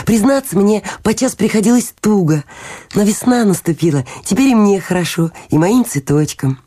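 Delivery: high, artless little fellow; eager little Hans. Acted. Little Hans tells the miller about his winter, guileless and eager.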